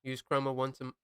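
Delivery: talking with a mouth full of food; words muffled by a bite of food. Real, not acted. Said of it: "let me not talk with my mouth full".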